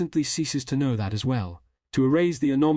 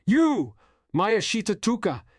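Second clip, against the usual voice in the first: put-on higher, louder girlish call; girl's voice, deeper; 9 semitones higher, 3 dB louder than usual. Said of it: "he said in Tuka's voice".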